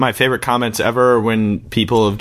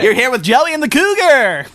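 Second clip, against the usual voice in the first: radio host voice; 11 semitones higher, 3 dB louder than usual. Pretend. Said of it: "play pretend professional radio".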